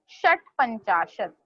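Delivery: षट्पंचाशत् with a clear retroflex ट् and a short crisp stop before पंचाशत्; model pronunciation. Shown as a demonstration. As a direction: say षट्पंचाशत् as शट्, with the ट् like the t in shut. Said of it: "likewise you have to pronounce षट्पंचाशत्". (षट्पंचाशत् को शट् की तरह साफ़ बोलो)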